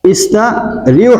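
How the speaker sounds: ইস্তারিহু drawn out slowly; slow demo. Shown as a demonstration. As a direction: drag out ইস্তারিহু for the learner. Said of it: "দেখেন".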